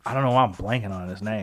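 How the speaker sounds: quick whisper to herself while searching; muttered whisper. Real, not acted. Whispering to herself while blanking on a name. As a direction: mutter it under your breath, fast.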